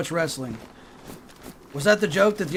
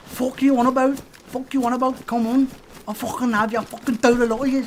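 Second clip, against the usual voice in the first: raised, put-on British hard-man accent; mock British accent; 5 semitones higher, 3 dB louder than usual. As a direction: pick a fight in imitated British accent. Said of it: "that was a good Scouser though".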